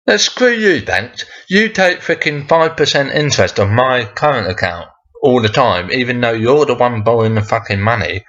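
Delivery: high-pitched outburst easing into an exasperated rant; indignant rant. Real, not acted. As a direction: tell the banks off, fed up. Mock rant addressed to banks.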